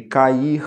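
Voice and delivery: cair slowly split as ca-ir; hiatus split apart. Shown as a demonstration. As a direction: separate the a and i in cair. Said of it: "Nem o I nem o U podem ter outra letra".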